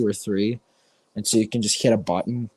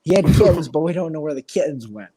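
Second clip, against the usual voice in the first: lightly voiced grandpa; 5 semitones higher than usual. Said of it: "my grandpa's like".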